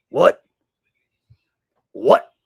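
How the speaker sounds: high, loud mimicked yelp; mock disbelief. Host mocks the clip's repeated what, loud mock disbelief. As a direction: parrot an incredulous outburst loudly.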